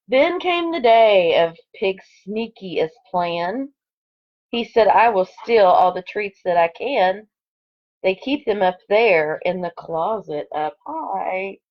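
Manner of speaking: lively storybook read-aloud; expressive picture-book narration; reading to children. Acted. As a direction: read it like story time for second graders. Reads picture book to class.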